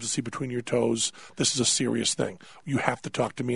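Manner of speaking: low, measured lecture; serious, subdued, pressing for a confession; grave doctor. Retold or imitated. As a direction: imitate a doctor soberly laying out the evidence. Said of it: "his tone just changes entirely".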